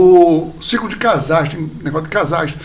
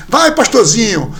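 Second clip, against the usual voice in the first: slow, louder teasing jab; teasing colleague; 3 semitones higher, 5 dB louder, slower than usual. Retold or imitated. Coworker teasing the would-be pastor, slow and louder. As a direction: imitate a coworker's drawn-out taunt. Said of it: "um cara do nada mesmo, assim".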